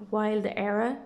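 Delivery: "Wild Era" said as two English words in a light English accent. Shown as a demonstration. Vlogger retries the deck name for viewers, English accent. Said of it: "il faut le faire avec un accent, euh, anglais".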